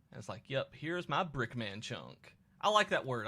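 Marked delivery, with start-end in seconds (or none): 0.5-2.4 slow Cockney drawl; put-on Cockney accent. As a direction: draw it out like a Cockney trader. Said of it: "I'm not gonna do my accent".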